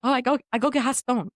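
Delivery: broken English, imitated accent; masseuse's foreign accent. Masseuse stepping out, imitated foreign accent. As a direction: lightly put on the masseuse's accent. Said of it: "then she goes".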